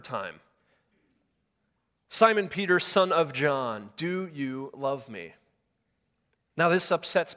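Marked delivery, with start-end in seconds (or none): 2.1-5.3 slow earnest plea. Acted. Third asking, Jesus voiced.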